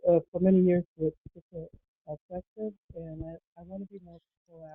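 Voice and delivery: muffled, far-off phone mic; echoing tunnel. Real, not acted. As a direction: voice lost in a tunnel. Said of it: "it sounds like you're in a tunnel".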